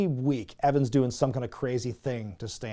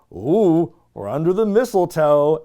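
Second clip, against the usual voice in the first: mock flirty voice; 6 dB louder than usual. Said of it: "they're like".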